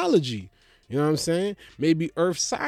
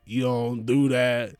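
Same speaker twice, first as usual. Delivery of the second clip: scolding ball player; 4 semitones lower than usual. Retold or imitated. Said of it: "And he's like".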